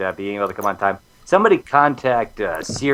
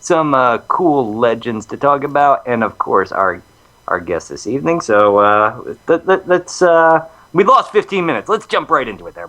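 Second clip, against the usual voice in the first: louder, punchy host voice; Demon Hunter voice; 6 dB louder than usual. Acted. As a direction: pump it up like a show host. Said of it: "I gotta get into the Demon Hunter voice here".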